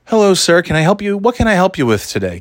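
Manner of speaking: high, bright eager saleswoman; mock eager saleswoman. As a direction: pounce with a too-eager greeting. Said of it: "she's like".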